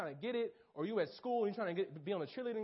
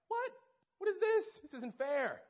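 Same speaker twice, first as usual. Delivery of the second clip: high, loud cry of protest; a betrayed freshman shouting his protest; outraged disbelief; 11 semitones higher, 4 dB louder than usual. Retold or imitated. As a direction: it isn't fair, say it louder and higher. Not picked as intern.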